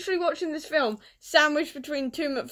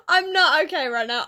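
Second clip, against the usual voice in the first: excited; 3 semitones higher, 5 dB louder than usual. Real, not acted.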